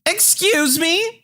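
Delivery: drawn-out offended gasp of a question; indignant Karen. Acted. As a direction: caller offended by being told off, high slow squeal.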